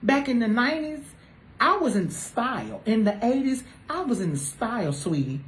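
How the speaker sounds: a hint of a proud mother schooling her kid; mom lecturing her child. Mother bragging to her child about her nineties style.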